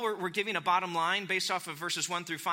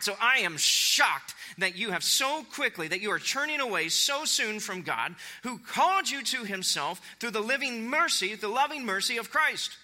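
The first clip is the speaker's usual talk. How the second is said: higher-pitched, incredulous reproach; astonished; 5 semitones higher than usual. Acted. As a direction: read Paul's letter in emphatic dismay. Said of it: "this is Paul's astonishment".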